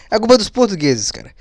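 laughing through the words. Real, not acted. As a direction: chuckle as you repeat it. Repeats joke while laughing.

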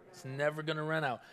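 hushed congregation-style echo; quiet echo. Shown as a demonstration. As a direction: let it fall away gently.

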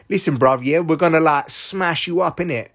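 mock London street accent, threatening; a lightly hammed-up street-accent tough; Russia. Russia threatening Ukraine, in a silly street accent. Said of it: "this is me using silly voices".

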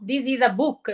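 put-on English with a heavy Italian accent. Teacher mimicking fiancé's fluent English, Italian accent. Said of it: "molto italianizzato".

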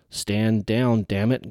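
yelled order. Acted. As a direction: yell at him to stand down. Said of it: "Garvin yelled".

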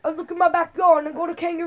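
mock Australian accent. Son demonstrating for dad, mock Australian accent. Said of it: "that's not Australian".

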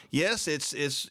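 ordinary talk

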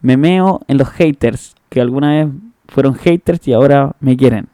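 defiant slogan. Acted. Defiant slogan, slow, loud.

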